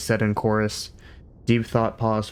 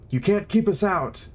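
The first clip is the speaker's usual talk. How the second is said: shout; 10 semitones higher than usual. A narrator's reading. Older philosopher shoving past staff, defiant shout. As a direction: yell it over the doorway scuffle. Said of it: "shouted the older one".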